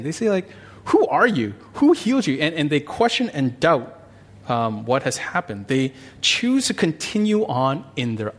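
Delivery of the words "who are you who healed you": higher, louder demanding questions; suspicious questioning. Retold or imitated. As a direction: grill the healed man. Pharisees interrogating healed man.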